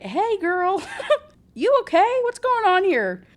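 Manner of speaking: breezy laughing flirt calling out; playful prince. Retold or imitated. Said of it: "And he's like".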